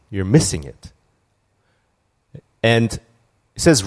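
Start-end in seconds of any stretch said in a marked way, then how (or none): 0.1-0.9 low, gentle voice of God; lower, a hint of divine calm correction; lightly voiced God speaking inwardly; Holy Spirit's voice. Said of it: "this is how the Holy Spirit speaks".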